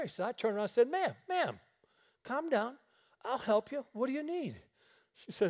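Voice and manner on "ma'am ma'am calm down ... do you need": high-pitched, urgent "ma'am" to get attention; retold calming plea. Man alone in store answers screaming woman, retold calming plea. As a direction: lightly act out settling someone panicked.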